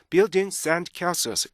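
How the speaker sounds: BUILDINGS AND CASTLES slow, tiny stop between words; "buildings and castles" measured, every ending held; linked with stops. Shown as a demonstration. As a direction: join "buildings and castles" keeping each beat. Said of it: "이렇게 돼야 되는데".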